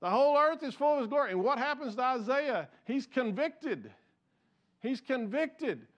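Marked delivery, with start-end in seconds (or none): 0.0-1.3 angels crying out. Retold or imitated. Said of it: "These angels are crying out".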